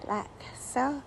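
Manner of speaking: Pam personality parody. Pretend. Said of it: "with my Pam personality".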